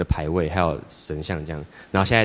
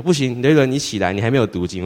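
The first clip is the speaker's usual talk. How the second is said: mock stern command; 4 semitones higher, 4 dB louder than usual. Holy Spirit scolds sleepy teen.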